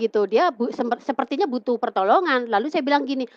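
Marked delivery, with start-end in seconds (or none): none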